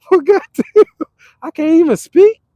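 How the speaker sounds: high mock outrage. Mock stranger voice, louder.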